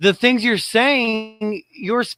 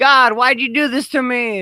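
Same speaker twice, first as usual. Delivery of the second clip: put-on angry child lashing out; 2 semitones higher than usual. Mocking the other speaker's argument, imitating an angry child lashing out. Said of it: "you just sound like an angry child".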